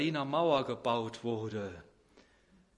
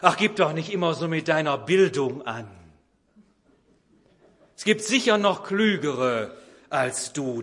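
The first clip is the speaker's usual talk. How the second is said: annoyed mother; 2 semitones higher, 7 dB louder than usual. Retold or imitated. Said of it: "Da wird die Mutter ärgerlich".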